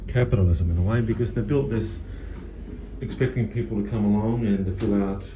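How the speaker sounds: speaking through a face mask; muffled, mask over mouth. Real, not acted. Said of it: "Sorry if I'm a bit muffled here. I'm wearing a mask".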